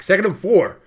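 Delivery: words stretched by a real yawn; through a yawn. Real, not acted. Podcaster calling the game, tired from a long day, yawning. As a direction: yawn your way through the down and distance. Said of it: "Sorry for the yawn".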